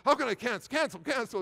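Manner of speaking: desperately trying to take it back; mock panic. A preacher reliving the moment he sent the angry email, frantic and high. Panicking after hitting send.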